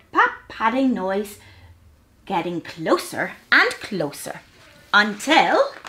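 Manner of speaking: measured, lilting storybook reading; gentle picture-book storytelling; children's story narration. A narrator's reading.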